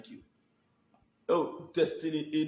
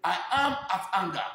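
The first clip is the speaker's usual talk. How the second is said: laughing mimicry; 4 semitones higher, 4 dB louder, faster than usual. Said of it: "she dey say".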